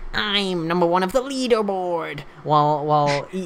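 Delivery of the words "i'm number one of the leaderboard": high, pitched-up, full nerdy voice. Mocking how someone on the leaderboard sounds, doing a Steve Urkel voice. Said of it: "He sounds like he's going".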